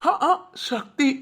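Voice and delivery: slow, dreamy echo of her name; mock swoon. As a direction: melt over her name, hammed-up. Husband swoons over wife's voice.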